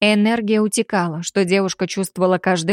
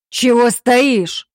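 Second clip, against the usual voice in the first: loud, slow, higher bark; 4 semitones higher, 5 dB louder, much slower than usual. A narrator's reading. Impatient Alpha barking at the girl, loud bark. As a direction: snap at her, losing control. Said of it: "рявкнул мужчина".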